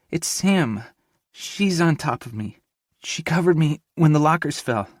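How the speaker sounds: put-on high, scared girl's voice under the rubble; a panicked young woman calling out from under the debris; Avery trapped, frightened. Avery calls out to Grayson from the rubble, high and frightened.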